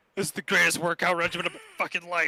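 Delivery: put-on gasping voice.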